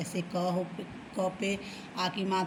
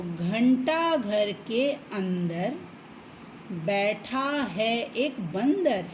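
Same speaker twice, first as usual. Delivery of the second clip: put-on slow sing-song rhyme for kids; slow chanting of a children's poem; children's rhyme reading; much slower than usual. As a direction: read it out slowly like a nursery poem.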